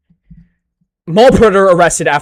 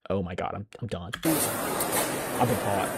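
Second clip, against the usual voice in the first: panicked inner voice; 6 semitones lower, 13 dB quieter than usual. Retold or imitated. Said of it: "their mind's just like".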